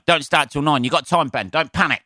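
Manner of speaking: mock self-reassurance.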